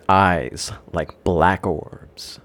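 eerie whisper. Acted. Eerie mysterious barista.

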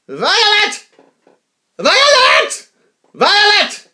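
high, loud mock scream of fear; imitated panicked mother. Mother calling for her lost daughter in the store, imitated panic. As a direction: call out frantically, imitating a terrified mother. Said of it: "you could hear the fear in this woman's voice".

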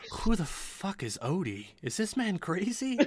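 baffled questions climbing at the end; Zindros piping up. Acted. Zindros asks about the stranger, baffled. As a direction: butt in, incredulous, pitch leaping up. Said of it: "Zindros kinda pipes up. She's like".

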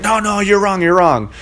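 hammed-up scornful correction; mock dismissive retort. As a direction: imitate a condescending know-it-all. Opposing coach dismissing Val.

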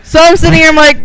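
loud, teary outburst; crying while laughing; in tears. Real, not acted. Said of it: "That's why I'm kind of in tears".

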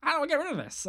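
high-pitched virus character; a pretend computer virus griping. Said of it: "It's like".

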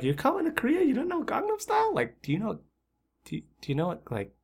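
very high, disbelieving mock voice; incredulous mockery. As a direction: scoff at someone who knows nothing. Mocking the clueless newcomer.

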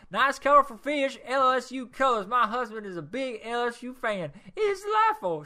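rereading the review in a high, loud put-on lady's voice; high woman's voice.

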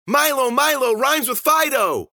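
high, loud rhyming taunt, stretched at the end; shrieky, drawn-out singsong; gleeful singsong. Acted. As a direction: chant it like a manic child's rhyme. Susie's gleeful rhyming cry continues.

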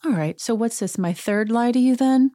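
imitated cool-as-a-cucumber challenge; cool mock innocence. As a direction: play unbothered, needling with questions. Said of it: "Sutton is cool as a cucumber".

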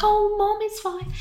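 high-pitched reassurance, softening at the end; mock soothing. She brushes off the new mum's worry, high soothing voice. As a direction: imitate someone soothing a mum in a high voice. Retelling someone reassuring the mum.

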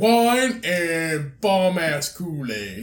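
lightly drawn-out imitation of a friend; slow, stretched mimicry of his buddy; mock drink pitch.

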